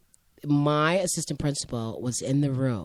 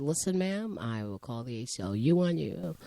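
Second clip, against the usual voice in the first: composed student; 4 semitones lower than usual. Retold or imitated. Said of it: "Robert probably said".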